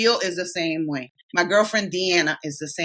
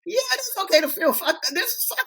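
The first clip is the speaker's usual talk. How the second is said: emotional release. Retold or imitated. Retelling her own emotional breakthrough.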